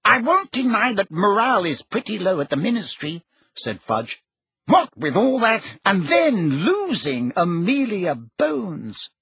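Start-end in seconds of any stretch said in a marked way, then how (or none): 0.0-3.2 high-pitched, flustered official; harried Fudge. A narrator's reading. 4.7-9.1 high-pitched, flustered official; harried Fudge. A narrator's reading.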